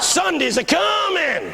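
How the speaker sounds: high, slow, ringing preacher refrain; pastor picking up. Retold or imitated. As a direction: proclaim it to a roused congregation, drawn out. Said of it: "they're beginning to pick up now".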